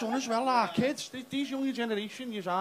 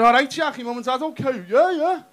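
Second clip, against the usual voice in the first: fake friendly, high; 5 semitones higher, 6 dB louder than usual. Mock friendly dad to Jack.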